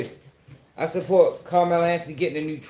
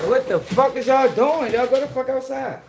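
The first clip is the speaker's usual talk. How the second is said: loud, high call across the house; high-pitched scolding yell; 9 semitones higher, 3 dB louder than usual. Real, not acted. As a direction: shout at them to get outside. Yelling at the kids indoors.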